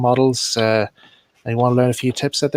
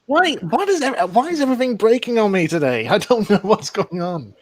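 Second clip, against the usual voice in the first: exasperated; 9 semitones higher than usual. Real, not acted. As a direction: plead with the universe. Tech failure on live stream.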